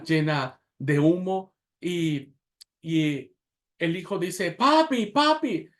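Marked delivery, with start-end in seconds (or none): 4.5-5.7 put-on high, loud child's cry; a scared little boy calling for his dad. A narrator's reading. Son at the smoky window, calling his father.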